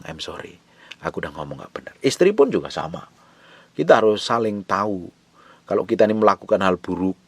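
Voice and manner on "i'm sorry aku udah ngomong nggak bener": hushed, much softer sincere sorry; whisper-close apology while hugging her. Shown as a demonstration. Husband shown how to apologize to his wife, very soft. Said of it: "peluk dia, bilang".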